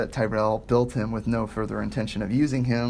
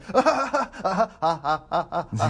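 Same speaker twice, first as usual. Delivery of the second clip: stiff mechanical laugh; robot laugh; 6 semitones higher than usual. Acted. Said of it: "Starts laughing like a robot".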